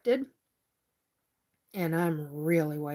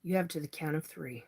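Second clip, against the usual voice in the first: real anger; 2 semitones lower, 5 dB quieter than usual. Real, not acted. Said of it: "And now I'm pissed".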